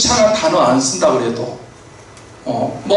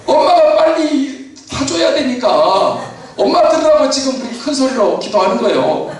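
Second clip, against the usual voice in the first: laughing shout; 7 semitones higher than usual. Real, not acted. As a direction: burst out laughing at the punchline. Preacher laughing at the punchline.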